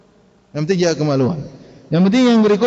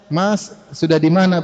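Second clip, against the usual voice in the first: polite soft asking; 3 semitones lower, slower than usual. Shown as a demonstration. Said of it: "Bahasa halus ngomongnya bagaimana?".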